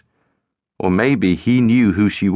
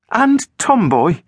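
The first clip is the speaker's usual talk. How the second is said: much higher, slow, pointed question; pressing question; 12 semitones higher, slower than usual. A narrator's reading. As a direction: draw it out suspiciously. Girl pressing him.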